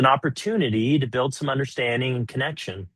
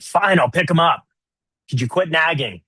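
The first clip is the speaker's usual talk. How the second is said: annoyed snap; 5 semitones higher than usual. Retold or imitated. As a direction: brush her off impatiently. Husband snapping back at wife.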